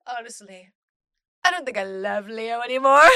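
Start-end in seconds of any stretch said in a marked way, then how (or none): 1.4-3.0 loud, high, laughing reread; excited shout. Acted. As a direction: shout it out in glee. Rereading line while laughing.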